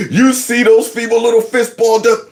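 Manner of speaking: ordinary talk, nothing marked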